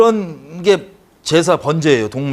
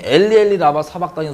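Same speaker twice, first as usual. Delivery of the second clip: retold cry. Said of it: "소리쳤던 걸".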